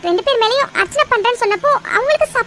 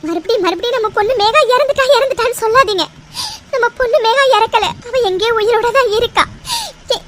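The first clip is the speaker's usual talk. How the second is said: acted tearful protest, breaking into crying; tearful pleading. Mother insisting to her husband that their daughter lives, tearful pleading. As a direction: plead through tears. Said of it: "ஏன் இப்படி அழுற?".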